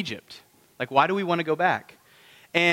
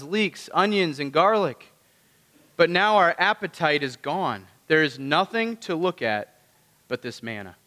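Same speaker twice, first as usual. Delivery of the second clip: a lightly voiced complaining crowd; moaning about the manna; whining Israelites. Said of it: "and said".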